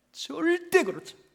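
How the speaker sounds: 절대 pitched high, then falling; high, firm stress on 절대; emphatic denial. Real, not acted. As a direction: hit 절대 high and insistent.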